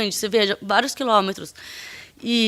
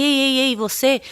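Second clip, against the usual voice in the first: higher, mildly agitated mock call; retold agitated challenge; 5 semitones higher than usual. Agitated man stopping her as she leaves, retold agitated challenge. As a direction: imitate him calling out, worked up. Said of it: "assim, alterado".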